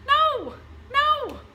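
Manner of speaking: high, loud "no, no"; sharp rejection. Acted. Mother rejects the idea of coldly reasoning mothers, high and loud. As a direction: cut the idea off at once.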